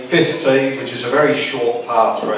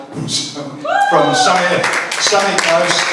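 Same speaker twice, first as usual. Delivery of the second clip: higher, laughing, slow start; 6 semitones higher, much slower than usual. Real, not acted. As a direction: tease it with a laugh. Laughing while naming guests.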